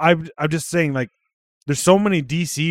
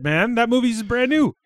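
annoyed protest; 11 semitones higher, 5 dB louder than usual. Real, not acted. Friend scolding about spoilers.

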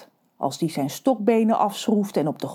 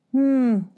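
unimpressed hum; 5 semitones higher than usual. Acted. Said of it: "humde Rons moeder".

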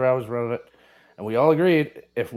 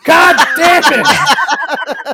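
mock outrage; 11 semitones higher, 9 dB louder than usual. Co-host exploding over caller not knowing the candy, mock outrage. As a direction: blow up theatrically, yelling high.

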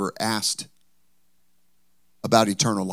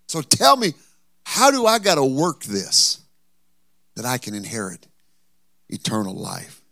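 put-on pushy young ruler. Ruler pressing Jesus.

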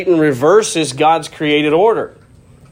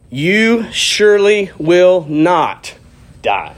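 serpent's lie; 2 semitones higher, much slower than usual. Acted. Serpent's lie read dramatically.

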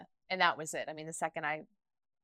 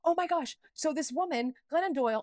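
gushing excitedly; 7 semitones higher, 4 dB louder than usual. Retold or imitated. Gushing to ex about author.

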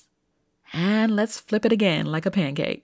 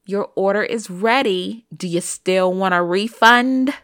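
louder, curt and challenging; snippy manager; 7 dB louder than usual. Retold or imitated. McDonald's manager snapping back at an impatient customer, curt and loud. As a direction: throw the question back at him with attitude. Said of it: "Now, the way she said it".

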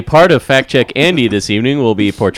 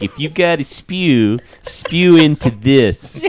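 Wayne's World quote; slower than usual. Retold or imitated. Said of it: "I was getting a whole Wayne's World moment here".

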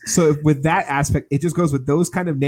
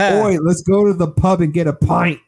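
mock British accent; 3 semitones higher than usual. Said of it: "Look at us".

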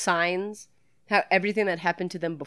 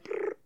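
buzzing noise; 11 dB quieter than usual. Shown as a demonstration. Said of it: "like a little buzz".

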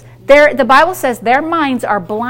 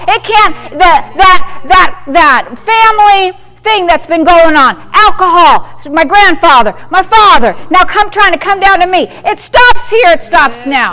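loud, impassioned shout; fervent preaching; 3 dB louder than usual. Real, not acted. Pastor shouting to break a family curse, impassioned. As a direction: preach it with rising fire.

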